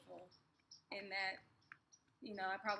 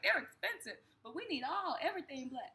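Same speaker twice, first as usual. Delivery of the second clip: higher and louder, eager; a cousin's eager plea, higher and louder; excited high insistence; 5 semitones higher, 4 dB louder than usual. Retold or imitated. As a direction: push it like you must have them. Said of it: "She was like".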